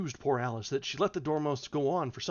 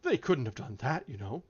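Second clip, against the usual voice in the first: gentle. Acted. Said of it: "Alice gently remarked".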